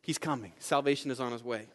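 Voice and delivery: soft, low, almost secret; hushed. Shown as a demonstration. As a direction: let the promise sink in quietly. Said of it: "hushed repeat of the herald's cry".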